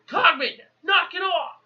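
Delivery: high-pitched, mock exasperated call; exasperated shout. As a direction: act out calling up to stop the racket. Retold telling-off of noisy Cogman.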